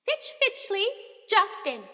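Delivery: loud, high roll call; teacher reading out a list loudly; calling out names. A narrator's reading. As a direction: call the name across the hall. Name called out.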